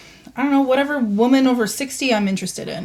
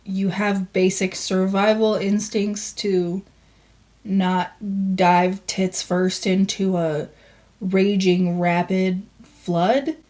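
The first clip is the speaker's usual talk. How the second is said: slow sarcastic disbelief; slower than usual. Real, not acted. Host mocks her dream choices.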